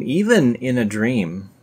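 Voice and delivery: slow, drawn-out even in a dream; mock awe. Shown as a demonstration. Mocking the dream verse for viewers, slow awe. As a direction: linger on "even in a dream" with fake wonder. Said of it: "because the dream part makes it totally amazing".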